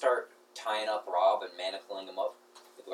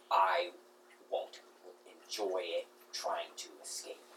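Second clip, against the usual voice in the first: rat voice. Acted.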